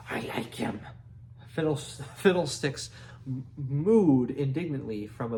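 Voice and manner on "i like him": whisper. A narrator's reading. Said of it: "whispered aside".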